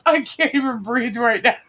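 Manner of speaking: real out-of-breath laughter; breathless from laughing. Real, not acted. Cohost laughing too hard to breathe, breathless from laughing. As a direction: barely get it out after laughing. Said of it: "I'm laughing too hard".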